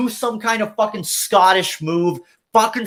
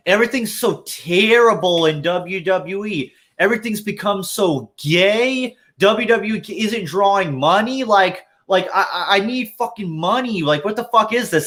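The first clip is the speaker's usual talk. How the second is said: a slightly higher, whiny caricature voice that barely departs from his own; half-hearted impression of a complaining wrestler; mock Mort Goldman impression; 3 semitones higher than usual. Podcaster mocks a wrestler's imagined gimmick, a lightly voiced whiny caricature. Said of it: "I can't do a fucking good Jewish impression".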